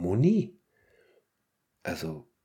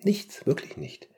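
emphatic whisper; 5 semitones higher than usual. Real, not acted. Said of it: "emphatic whisper".

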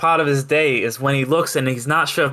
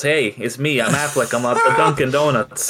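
mock Boston accent. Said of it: "What about all those Dunkin' commercials?".

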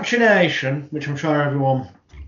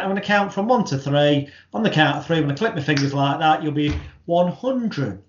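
authoritative hypnotist; 2 semitones higher than usual. Shown as a demonstration. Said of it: "deliver it with authority".

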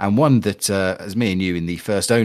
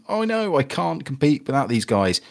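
high, whiny mock panic as a worried player; hammed-up 'oh no' wail, then a lighter moan; playful imitation of a fan losing hope; mock despair; 5 semitones higher than usual. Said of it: "and thinking".

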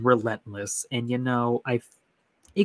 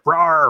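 loud mock roar, pitched up; imitated monster roar; 5 semitones higher, 8 dB louder than usual. Player imitating what you hear crawling through, loud roar. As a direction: let out a sudden jump-scare roar. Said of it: "And you hear".

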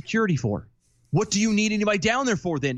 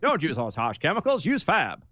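commercial announcer voice; slower than usual. Pretend. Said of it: "Same deal".

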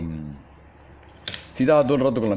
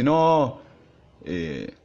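mocking a classmate's high squeaky voice, pitched up; squeaky voice imitation; 6 semitones higher, slower than usual. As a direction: squeak it out like a goofy kid. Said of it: "tiene una voz de pito".

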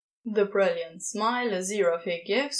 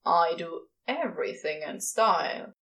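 grumbling; 5 semitones lower than usual. Acted. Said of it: "Crowley grumbles".

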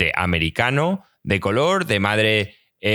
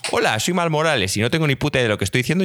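a hint of a fast, stilted read of a memorized line; reading a line without understanding it; faster than usual. Friend mocks a dub actor reading blindly, lightly stilted. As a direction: rattle it off like reading an unfamiliar script. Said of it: "la típica gracia de".

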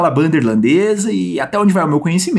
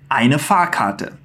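slow repeat-after-me; 4 semitones lower, much slower than usual. Shown as a demonstration. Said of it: "Então repete aí comigo".

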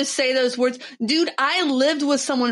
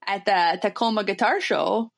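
put-on Minnesota accent. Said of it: "you're nailing it".

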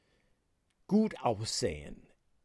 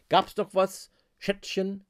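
mildly sarcastic; 5 semitones higher than usual. Shown as a demonstration. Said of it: "leicht sarkastisch".

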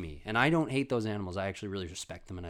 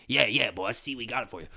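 lightly voiced servile sidekick; eager henchman; 4 dB louder than usual. Henchman showing the boss the camera, mildly eager goon voice. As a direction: play up to the boss. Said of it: "the monkey's the little guy".

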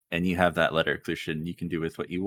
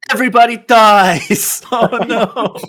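villain voice; 13 dB louder than usual. Acted. Villain voice returns, players laugh.

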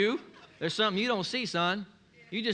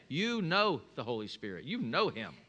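lower, softer, said gently like quoting Jesus; soft quote; 8 semitones lower, 5 dB quieter than usual. Retold or imitated. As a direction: hand them the words quietly.

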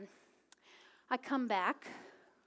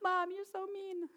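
put-on pouting toddler; 7 semitones higher, 4 dB quieter than usual. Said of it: "she's just pouting".

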